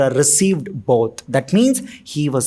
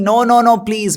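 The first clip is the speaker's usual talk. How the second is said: pleading; 4 semitones higher than usual. Retold or imitated. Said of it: "he was pleading".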